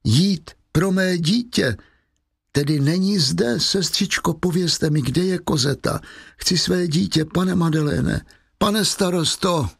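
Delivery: put-on high, desperate mother calling for her child; pleading sick mother. Dying Fantine begs the nun and mayor for her child, high and urgent.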